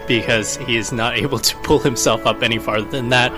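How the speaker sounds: ordinary talk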